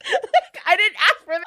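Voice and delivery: loud, high exasperated outburst; exasperated "oh my God". Retold or imitated. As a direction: blurt it out in disbelief. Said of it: "you're like".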